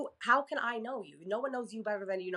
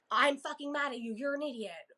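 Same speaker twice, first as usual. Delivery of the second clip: mock angry outburst; 6 semitones higher than usual. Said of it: "it's very easy to be like".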